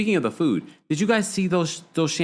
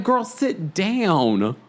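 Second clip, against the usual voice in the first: slow exasperated scold; 3 semitones higher, much slower than usual. Retold or imitated. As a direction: stretch it out, fed up. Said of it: "I was like".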